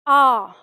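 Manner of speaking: आ stretched long from the throat; drawn-out long aa. Shown as a demonstration. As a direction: hold आ long and open. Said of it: "इसे हम खींच के बोलेंगे". (आ को खींचकर लंबा बोलें)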